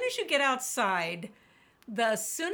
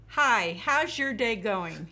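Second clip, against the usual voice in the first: friendly greeting; 4 dB louder, slower than usual. Retold or imitated. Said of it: "you're gonna say to the clerk".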